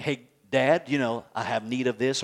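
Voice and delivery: put-on a child politely asking dad; gently asking father for something; humble request.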